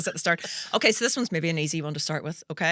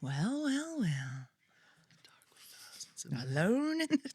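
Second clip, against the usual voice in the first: whispered, much softer take; hushed repeat; 9 dB quieter, slower than usual. Acted. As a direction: breathe it out under your breath.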